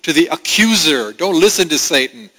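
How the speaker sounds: a hint of a tender, rising appeal; lightly voiced Holy Spirit reassuring a believer; Spirit's voice. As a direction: voice the Spirit urging the child to look up. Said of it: "the Holy Spirit says".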